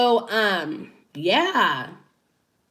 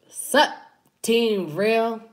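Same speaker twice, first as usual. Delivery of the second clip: a louder, lightly put-on channel greeting; imitating the intro; 3 semitones higher, 4 dB louder, much slower than usual. Vlogger mimicking a YouTuber's intro for her viewers, lightly voiced. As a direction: toss it out like his sign-on. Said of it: "that's the intro".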